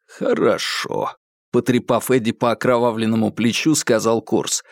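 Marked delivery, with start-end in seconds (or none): 0.1-1.1 slow, breathy whisper; cold hushed word. A narrator's reading. Kurtz calmly ends interrogation.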